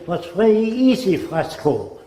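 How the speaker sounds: a hint of a German ace; light German-accented reply. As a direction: quote the old pilot with a German accent. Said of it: "That's the way he spoke".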